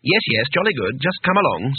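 mild, humouring reassurance; soothing. Acted. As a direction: gently coax someone who is not themselves. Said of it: "said Two-Flower soothingly".

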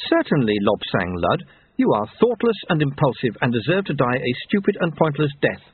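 lightly voiced, cutting reprimand; stern scolding woman. Woman scolding the reckless young man she caught, stern. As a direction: tell him off with cool authority.

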